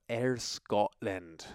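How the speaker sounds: slow, badly faked Scottish accent. Shown as a demonstration. Host naming where the family just arrived, bad Scottish accent. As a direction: try a Scottish accent and miss. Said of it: "that's such a bad accent".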